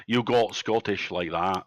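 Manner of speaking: low, slow Scottish accent. Shown as a demonstration. Game master showing players how Scottish sounds, Scottish accent. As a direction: demonstrate a plain Scottish lilt, slowly. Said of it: "that was Scottish".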